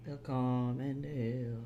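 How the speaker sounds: soft unvoiced singing along to "Willkommen hier"; whispering the lyric "Willkommen hier"; whispered singalong. Real, not acted.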